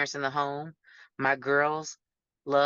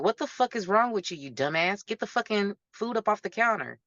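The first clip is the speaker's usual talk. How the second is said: imitating a sharp, higher-pitched cursing rant at her partner; retold cursing outburst; 5 semitones higher than usual. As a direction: replay the angry scolding, pitched up, half-performed. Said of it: "the aggression and the cursing comes out".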